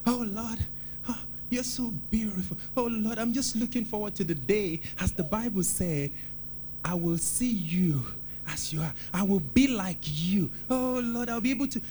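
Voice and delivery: tender prayer. Shown as a demonstration. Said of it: "it connects with your spirit".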